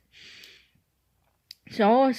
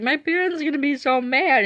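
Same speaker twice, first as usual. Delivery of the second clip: high, mildly whiny mock sob; retold crying; 8 semitones higher, 4 dB louder than usual. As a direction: lightly imitate a tearful caller. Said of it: "I was doing this while crying".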